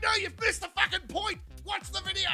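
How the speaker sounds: a hint of losing patience; pushing up in pitch, fed up; exasperated. Exasperated at the troupe again.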